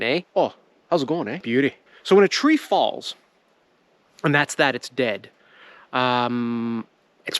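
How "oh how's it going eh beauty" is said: mock Canadian accent. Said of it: "without sounding Canadian".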